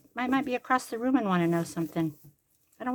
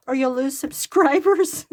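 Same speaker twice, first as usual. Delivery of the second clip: imitating a granddaughter's loud, higher, drawn-out warning; 6 semitones higher, 10 dB louder than usual. Granddaughter warning grandma about her channel, loudly imitated. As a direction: retell it loud and slow, breaking into laughter. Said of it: "she goes".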